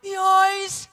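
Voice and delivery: half-shouted eureka to himself; excited realisation. Retold or imitated. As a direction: blurt it out as it all clicks. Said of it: "I'm going".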